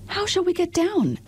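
a young girl asking, lightly voiced; Dorothy's voice.

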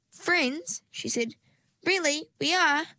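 high, excited disbelief; delighted surprise. Acted. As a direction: gasp it with joy.

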